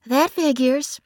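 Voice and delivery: a sardonic I-told-you-so; dry sarcasm. A narrator's reading. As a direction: sister sniping at the husband. Bree's dry comment.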